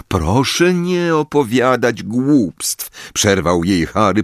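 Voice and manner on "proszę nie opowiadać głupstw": forced smile. Acted. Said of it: "próbując się uśmiechać".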